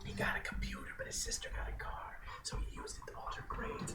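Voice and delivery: whispering. Real, not acted. Whispered movie plot aside.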